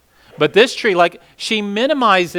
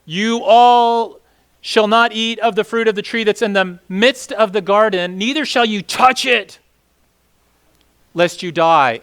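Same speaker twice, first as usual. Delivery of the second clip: slow, overstated prohibition; lightly hammed-up strict warning; mild exaggerated warning; 3 semitones higher than usual. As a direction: blow the rule up bigger than it was. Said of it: "but you notice".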